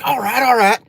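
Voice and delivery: high, eager double agreement. Retold or imitated. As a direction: jump up high, keen to agree.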